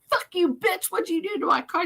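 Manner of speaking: high, loud staged fight yell; mock furious accusation. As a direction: pick a fake fight at full volume. Acted mock bar fight.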